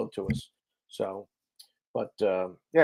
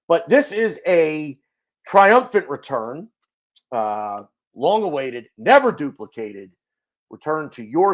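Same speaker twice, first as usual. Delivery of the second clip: grand announcement; 3 semitones higher, 5 dB louder than usual. Acted. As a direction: announce it like a triumphant homecoming. Grand announcement of the show's return.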